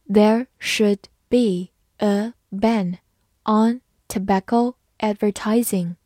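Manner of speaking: slow, word-by-word model reading. Shown as a demonstration. English teacher modelling the tobacco sentence for learners, slowly. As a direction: read it slowly with gaps between words. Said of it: "慢慢来读".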